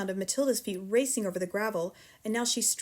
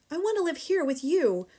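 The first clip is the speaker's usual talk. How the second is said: high, louder pleading; cried out; 7 semitones higher, 4 dB louder than usual. A narrator's reading. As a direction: beg to stay. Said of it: "Matilda cried out".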